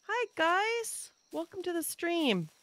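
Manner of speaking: very high, cutesy welcome; high little hello without pushing volume; high-pitched greeting. Real, not acted. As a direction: greet them in a small high voice. Greeting the newly arrived raiders.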